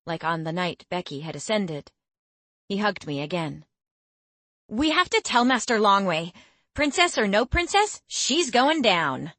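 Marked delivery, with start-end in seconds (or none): 4.7-9.3 threatening. A narrator's reading. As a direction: promise revenge with grit. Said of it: "Becky threatened".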